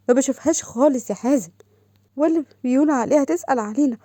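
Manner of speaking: hurt outpouring. Acted. Upset sister pours out hurt.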